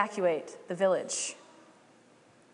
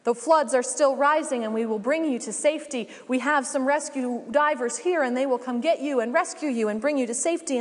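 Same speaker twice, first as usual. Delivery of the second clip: calling out; 2 semitones higher than usual. Acted. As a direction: call out to the man on the roof. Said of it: "she calls out".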